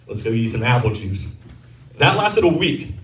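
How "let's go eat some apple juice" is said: low, soft reassuring reply, lightly acted; mock-tender father, voice dropped; indulgent dad. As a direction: answer a small child quietly and low. Father gently answers thirsty son.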